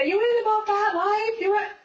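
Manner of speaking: high, loud taunting voice; imitating taunting cellmates; mocking inmates. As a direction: sneer it like the other girls. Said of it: "they all said".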